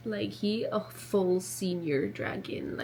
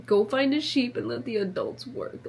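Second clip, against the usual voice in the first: mocking dragon; 3 semitones higher, 4 dB louder than usual. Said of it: "She's fully mocking Taryn".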